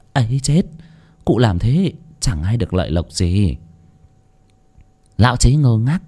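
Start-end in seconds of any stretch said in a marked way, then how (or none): 0.1-3.6 pretend fearful coaxing. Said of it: "giả bộ sợ sệt, ôm chân Lão Chí mà thổ thỉ".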